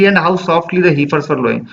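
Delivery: slow, measured recitation of the verse; poem reading. Acted. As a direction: read the line slowly, savouring it. Reading poem line slowly.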